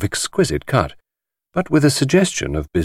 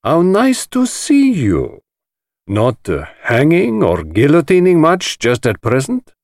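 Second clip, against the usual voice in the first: high, louder teasing society voice; mocking host; 4 semitones higher, 4 dB louder than usual. A narrator's reading. Chaitana teases Poirot about crime, high and mocking. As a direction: bait him with sly amusement. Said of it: "said Mister Chaitana".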